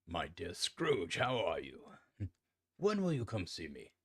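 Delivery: acted friendly greeting with swooping pitch; lightly hammed-up glad hello; gladsome greeting. A narrator's reading. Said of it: "gladsome looks".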